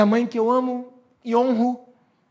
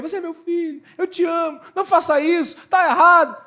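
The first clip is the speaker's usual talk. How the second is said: mother pleading; 8 semitones higher than usual. Retold or imitated. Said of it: "Minha mãe disse pra mim".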